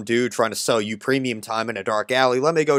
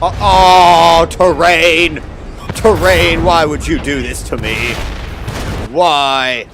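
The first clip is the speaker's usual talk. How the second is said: crying with rage; 5 semitones higher, 9 dB louder, slower than usual. Real, not acted. Plane crashes into terrain.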